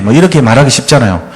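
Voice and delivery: ordinary delivery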